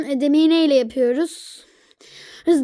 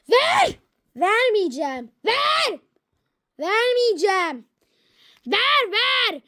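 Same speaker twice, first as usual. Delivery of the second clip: whiny demand; 4 semitones higher than usual. Acted. Tiz çocukça ısrar.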